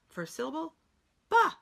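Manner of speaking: syllable by syllable, ba; sounding it out. Shown as a demonstration. Teacher sounding out the syllable ba for students. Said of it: "You sound it out".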